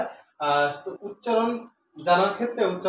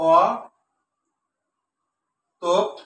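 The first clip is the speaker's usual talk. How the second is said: long open অ, a pause, then a short closed তোপ; অ held, তোপ isolated after a silence; syllable by syllable; 5 dB louder, much slower than usual. Shown as a demonstration. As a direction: draw out অ and cut তোপ short. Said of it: "এটা সঠিক উচ্চারণ হচ্ছে".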